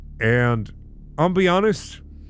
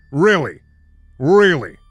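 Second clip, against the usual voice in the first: exasperated; 7 dB louder than usual. Real, not acted. Mocking writer's choice.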